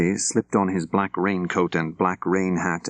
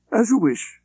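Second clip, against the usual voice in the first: a higher, clipped-free commanding gentleman; crisp official; 3 dB louder than usual. Acted. Layton telling his driver Bob to go home, crisp official. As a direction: give the order briskly.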